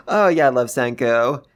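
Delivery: thrilled by the panel; excited gasp. Real, not acted. Gasps at the manga page.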